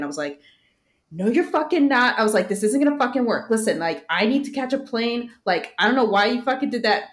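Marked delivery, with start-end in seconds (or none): 1.1-7.1 loud, higher mock-furious yelling at the driver; telling off a rideshare driver who won't drop her, replayed loud and angry; retold angry rant. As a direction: relive chewing out the driver, loud and high. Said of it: "Basically just going off on him".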